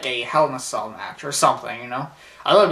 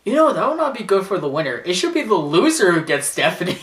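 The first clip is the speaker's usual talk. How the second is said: raised, louder mock promo voice; Paul Heyman; 5 semitones higher, 5 dB louder than usual. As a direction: pitch it up to deliver a teasing twist. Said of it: "he goes like this".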